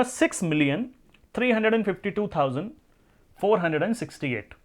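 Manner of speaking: groups read clearly, थ्री stressed with a fast rise; correct reading. Shown as a demonstration. Teacher models correct pronunciation of the number for students. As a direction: model reading of सिक्स मिलियन थ्री हंड्रेड एंड फिफ्टी टू थाउजेंड. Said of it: "ये इसका सही, अ, pronounce होगा".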